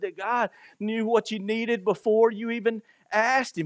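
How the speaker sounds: a hint of God reassuring his child. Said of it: "And he says".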